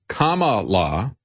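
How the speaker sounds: "Kamala" drawn out slowly with first-syllable stress; careful "correct" pronunciation. Shown as a demonstration. Mock-careful correct name.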